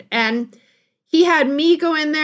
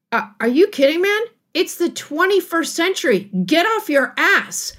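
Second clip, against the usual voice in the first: a mild mock rant, pitched higher; half-hearted imitation of a therapist chewing him out; retold yelling therapist; 4 semitones higher than usual. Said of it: "he yells and he swears".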